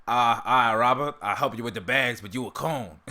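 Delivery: lightly put-on cartoon character voice; rough attempt at a character's greeting; Uncle Ruckus impression. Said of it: "I have to do the voice".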